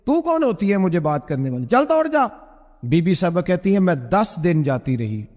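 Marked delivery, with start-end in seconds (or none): 0.0-2.3 imitating a wrathful husband, ending much higher; mock-stern husband snapping at his wife; majestic anger. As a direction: dismiss her with retold fury that jumps up high on the last words. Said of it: "میں نے جلال فرمایا".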